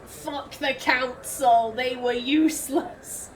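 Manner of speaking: slow, drawn-out mock scorn; acted contempt. Player speaking for character fed up with the Council, slow scorn. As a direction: stretch the words out with contempt. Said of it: "Naomi is feeling this".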